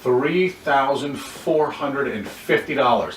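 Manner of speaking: slow, full spelled-out amount; spelled-out figure. Shown as a demonstration. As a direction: lay out every digit of the number. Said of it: "you don't want to actually verbalize those things".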